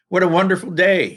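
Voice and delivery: teacher performs a mock shout for the class. Shown as a demonstration. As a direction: call it out brightly as Mary. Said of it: "shouted Mary".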